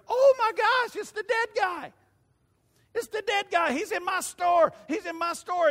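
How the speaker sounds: high, loud astonished shout; hammed-up amazement; shocked shopkeeper. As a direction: gasp it out like you've seen a ghost. Shopkeepers spotting the dead man.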